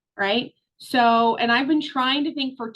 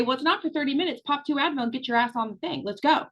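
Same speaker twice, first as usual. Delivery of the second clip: sassy push; faster than usual. Retold or imitated. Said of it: "Sassy Sandra would say".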